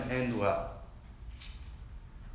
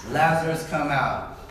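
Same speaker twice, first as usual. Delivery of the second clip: loud commanding call; louder call; 4 semitones higher, 5 dB louder than usual. Shown as a demonstration. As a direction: call it out strong. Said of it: "we've broken a barrier".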